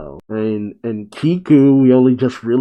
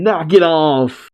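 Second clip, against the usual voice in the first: higher, drawn-out mock scolding; slow, raised-pitch telling-off; annoyed scolding; 4 semitones higher, slower than usual. Acted scolding while hitting him.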